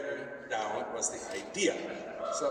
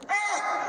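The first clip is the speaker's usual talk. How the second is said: high startled yelp; sudden high squeal of disgust; startled shriek; 5 dB louder than usual. Acted. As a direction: shriek as if scalded. Character drops human skin.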